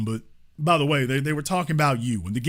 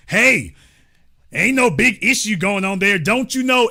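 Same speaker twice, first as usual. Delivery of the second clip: mock caller voice; 3 semitones higher, 4 dB louder than usual. Mocking the worried caller, louder and higher. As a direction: taunt him in his own voice.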